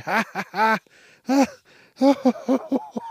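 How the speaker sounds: high, loud, hammed-up laughter; hearty fake laugh. Shown as a demonstration. Laughing at friends while ignoring a dropped item, hammed-up laugh. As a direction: laugh it up like you can't stop.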